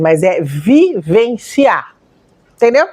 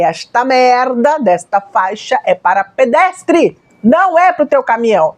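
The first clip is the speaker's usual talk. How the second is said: slow, emphatic mock yell of indignation; mild retold yell; 2 semitones higher, slower than usual. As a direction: re-enact yelling at a driver without really shouting. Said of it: "E eu gritei".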